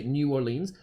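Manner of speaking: "New Orleans" read out in full with long -leens; outsider's reading pronunciation. Shown as a demonstration. An outsider reading it, "New Orleans" fully sounded out. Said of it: "If someone reads that and isn't from".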